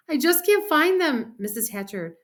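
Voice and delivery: put-on high, upset girl's whine; mildly tearful excuse; sniffly. A narrator's reading. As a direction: plead tearfully, slowing at the end. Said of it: "Sheila sniffled and said".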